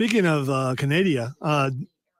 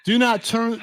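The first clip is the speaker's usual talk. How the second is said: upbeat show opener; radio host intro; 3 semitones higher than usual. Acted. Host opening hour two of the show, announcer style. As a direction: welcome listeners back like a host.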